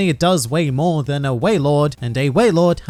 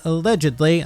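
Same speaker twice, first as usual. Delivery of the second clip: "allegedly" set apart and spelled out syllable by syllable; stress on allegedly. Real, not acted. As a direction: lean pointedly on "allegedly". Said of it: "I emphasize the word allegedly".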